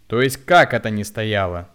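loud outraged question; indignant. A narrator's reading. Woman outraged at being accused of queue-jumping, shouting. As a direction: hurl the question back in outrage. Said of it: "возмутилась она".

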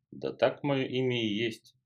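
slow, rumbling, bubbling water spirit voice; gurgling rumbling water spirit. Acted. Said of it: "пророкотал переливающийся струями и булькающий голос". (булькающий рокочущий голос водяного)

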